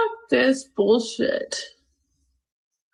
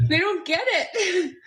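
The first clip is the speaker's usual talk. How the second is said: laughing through tears; 4 semitones higher than usual. Real, not acted. Laugh-cry after rant.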